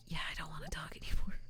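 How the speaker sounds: quick, tired whisper; lazy whisper. Retold or imitated. Streamer reenacting being too lazy to talk, fast whisper. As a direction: whisper it like talking is too much effort. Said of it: "the whispering started".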